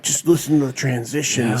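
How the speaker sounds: lightly voiced stoned friend, a little hushed; stoned musician. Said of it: "They were talking like that".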